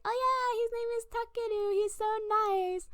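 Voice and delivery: high, swooning friend voice; gushing girls. Retold or imitated. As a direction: gush in a high girlish pitch. Girl friends gushing about boy, retold.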